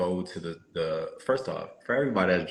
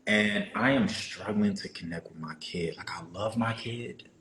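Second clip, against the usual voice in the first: hammy stage actor. Pretend. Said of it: "put on my acting voice".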